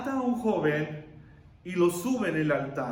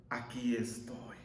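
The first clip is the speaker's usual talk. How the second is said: low, soft, slow reply; hushed, measured submission; same steady answer; 8 semitones lower, 8 dB quieter, slower than usual. Acted. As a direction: answer slowly and quietly, accepting the test. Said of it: "contesta en las dos situaciones de la misma manera".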